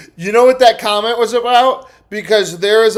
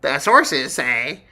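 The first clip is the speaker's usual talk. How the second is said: mocking news reader. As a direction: drag it out, scornful. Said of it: "You're like".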